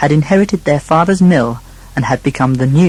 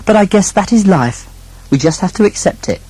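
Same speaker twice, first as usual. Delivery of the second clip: higher, shrugging tone; resigned younger brother; 6 semitones higher than usual. Acted. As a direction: accept it with a sigh. Second son resigned.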